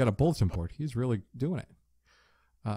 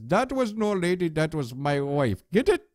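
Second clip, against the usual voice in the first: hammed-up joke telling; 5 semitones higher than usual.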